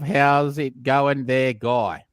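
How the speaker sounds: put-on slow How's it going there, guy, in a drawn-out local accent; regional accent. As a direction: drawl it like a friendly local. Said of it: "I'm from the area of".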